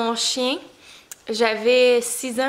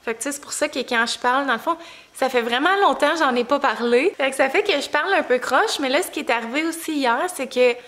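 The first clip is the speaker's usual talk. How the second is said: swollen tongue. Real, not acted. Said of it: "ma langue est super enflée".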